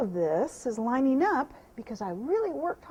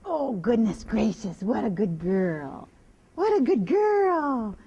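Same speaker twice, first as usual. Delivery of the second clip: drawn-out, loud doting praise; lavish the mare with slow delight; gushing slow praise; 5 dB louder, much slower than usual. Real, not acted.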